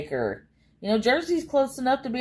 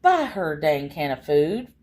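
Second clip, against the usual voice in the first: pleading; 4 semitones lower than usual. Retold or imitated. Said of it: "it's just like".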